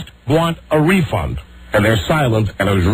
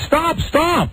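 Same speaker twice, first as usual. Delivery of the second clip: mock scream; 12 semitones higher than usual.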